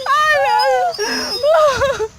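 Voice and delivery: reversed audio, laughing; played in reverse; backwards speech. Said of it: "nós estamos falando ao contrário".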